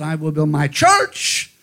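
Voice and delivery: slow, rising to a strong church; stress on church. Shown as a demonstration. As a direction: end on church with weight. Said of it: "which word he placed the most emphasis on".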